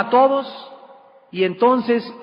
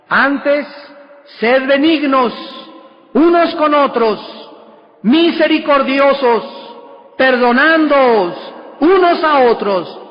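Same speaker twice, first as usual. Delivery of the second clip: emphatic exhortation; 4 semitones higher, 4 dB louder, slower than usual. Acted. Preacher exhorting from Scripture.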